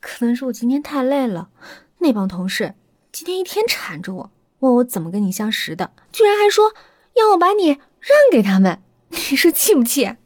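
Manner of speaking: mock-indignant about her coworkers; playful complaint. Wife jokes to husband about greedy coworkers, teasing. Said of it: "笑着说道".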